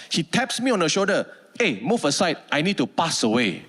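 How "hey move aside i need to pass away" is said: lightly voiced boss with broken English; a hint of the clumsy boss. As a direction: lower mock boss voice. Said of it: "the world's most broken English".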